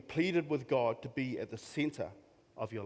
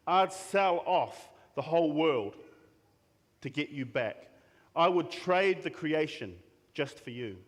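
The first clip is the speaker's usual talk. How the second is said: expressive Bible reading, voice of God speaking; heartfelt scripture read. Acted. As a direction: read it as God's own tender promise.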